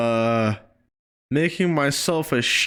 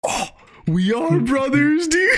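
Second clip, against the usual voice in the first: excited cry; 8 semitones higher than usual. Real, not acted. Moved by bow to both.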